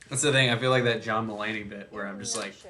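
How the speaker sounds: talking through burps; burping the words. Real, not acted. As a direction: speak while burping between words. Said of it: "I'm just talking through burps".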